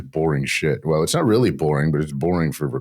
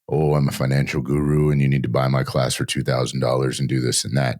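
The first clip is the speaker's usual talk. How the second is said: mock financial guru; 3 semitones lower than usual. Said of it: "not your typical".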